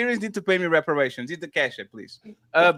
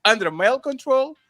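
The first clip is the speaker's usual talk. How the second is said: dramatic read; 6 semitones higher than usual. Pretend. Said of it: "Why you had to read it like that?".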